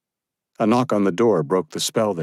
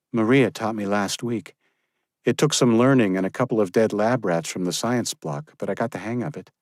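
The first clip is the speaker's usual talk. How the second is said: higher, firm woman's voice; young woman's voice; 4 semitones higher than usual. Acted. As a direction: give a brisk order. Josephine explaining.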